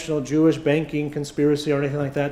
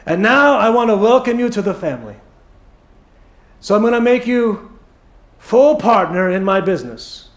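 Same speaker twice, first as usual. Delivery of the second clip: put-on higher-pitched, half-hearted Jewish accent; unsure stab at a Jewish accent; 4 semitones higher, 4 dB louder than usual. Businessman welcoming son-in-law into the family, attempted Jewish accent. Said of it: "I'm gonna forget the accent".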